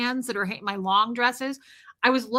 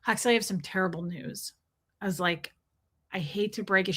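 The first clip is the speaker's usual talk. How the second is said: low, grave announcement; detached bad news; 4 semitones lower, 4 dB quieter than usual. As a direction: break it to a child with mock solemnity. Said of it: "talk about delivering news like a Scientologist".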